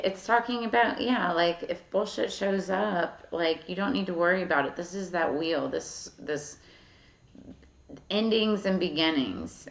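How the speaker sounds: usual speaking voice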